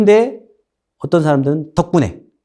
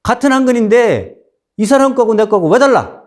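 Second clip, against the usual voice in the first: higher, louder indignant yelling at the butcher; angry scolding; 8 semitones higher, 4 dB louder than usual. Retold or imitated. Nobleman scolding the butcher over uneven meat, indignant. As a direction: berate him for the short weight. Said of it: "이렇게 막 뭐라고 한 거예요".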